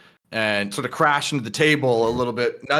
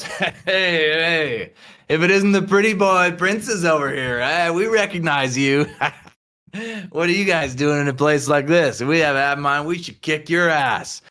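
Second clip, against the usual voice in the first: lightly voiced rowdy drunk, a bit higher; drunk heckler; 4 semitones higher than usual. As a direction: jeer at the pretty boy, tipsy and mocking. Drunk patrons heckle the princess.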